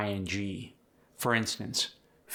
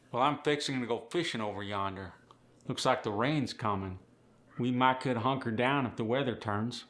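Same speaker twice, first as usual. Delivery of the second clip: Appalachian accent. Shown as a demonstration. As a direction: model the Appalachian sentence for the learner. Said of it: "sentence delivered by Earl in Appalachian fashion".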